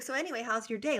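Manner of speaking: breezy change of subject; casual, no big deal. Retold or imitated. Guy friend moving on after his blunt remark, casual. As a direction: move on as if nothing happened. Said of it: "like, it was no big deal to him".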